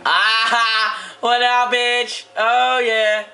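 mock bro greeting. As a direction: greet him like a swaggering dude. Mocking greeting in put-on voice.

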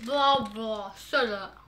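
talking with a mouth full; words round a bite of food. Real, not acted. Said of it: "Don't talk with your mouth full".

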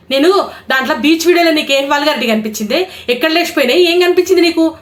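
really fed up, firing back at a troll; real anger building up; angry tirade. Real, not acted. Real rant at her trolls.

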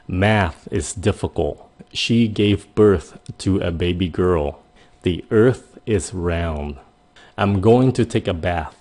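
slow, deliberate sentences with each th clear; slow teaching read. Shown as a demonstration. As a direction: read it slowly, stressing the th sounds. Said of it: "mình ví dụ những câu cho các bạn". (đọc chậm từng câu, nhấn rõ âm "th")

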